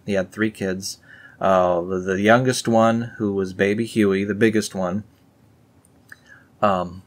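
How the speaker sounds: usual speaking voice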